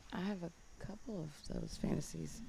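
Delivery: hushed, shy confession; whispering. Real, not acted. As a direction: say it barely above a breath. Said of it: "You're whispering".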